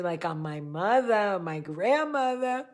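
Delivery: lightly exaggerated Jersey-New York accent; mixed Jersey and New York accent. Shown as a demonstration. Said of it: "exaggerated version of my accent".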